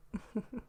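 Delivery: short, hushed giggle; small breath of a laugh under the whisper; quiet little chuckle; soft chuckle. Acted. Soft laugh in whispered role-play.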